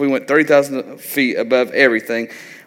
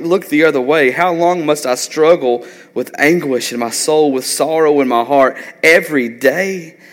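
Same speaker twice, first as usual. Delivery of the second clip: high, loud anguished lament to God; David crying out; 3 semitones higher, 3 dB louder than usual. Acted. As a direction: plead with the Lord like a desperate psalmist, voice raised high. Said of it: "And he said this in Psalms thirteen".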